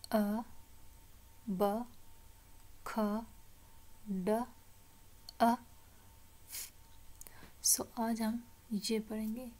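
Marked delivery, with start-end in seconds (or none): 0.1-6.7 "a, ba, kha, da, a, f" as isolated short sounds; phonics sounds. Shown as a demonstration. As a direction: model "a, ba, kha, da, a, f" one by one for repeating. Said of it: "learn with me". ("a, ba, kha, da, a, f" एक-एक ध्वनि रुककर)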